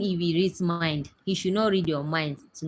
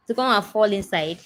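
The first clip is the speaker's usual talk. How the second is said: indignant disbelief; 4 semitones higher, 5 dB louder than usual. Real, not acted. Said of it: "Wow. Really?".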